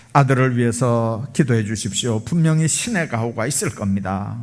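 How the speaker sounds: retold kindly doctor, composed; calm reassurance. Doctor reassuring the father before surgery, calm reassurance. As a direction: reassure without any rush. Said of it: "미소를 지으면서 그럽니다".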